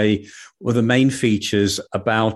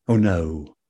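dismayed moon; 4 semitones lower than usual. Acted. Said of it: "said the moon".

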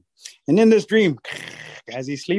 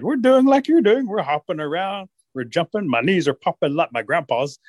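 confused wolves; 4 semitones higher than usual. Acted. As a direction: complain like puzzled wolves.

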